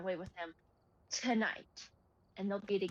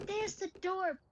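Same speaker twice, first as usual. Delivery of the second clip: meme repeat; 10 semitones higher than usual. Retold or imitated. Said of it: "that meme is like".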